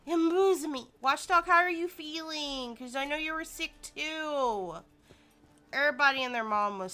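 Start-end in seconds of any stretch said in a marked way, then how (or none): 0.1-2.8 gasping, higher and louder; mock outrage. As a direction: gasp in fake shock.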